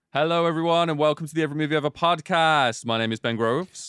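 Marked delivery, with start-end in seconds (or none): 0.1-2.8 bright, lively podcast opening; upbeat host intro. Acted. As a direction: launch the show with energy. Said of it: "Good, good".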